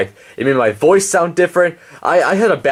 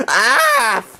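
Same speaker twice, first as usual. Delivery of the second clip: much higher sarcastic female voice. Acted. Henrietta scoffs at Leroy.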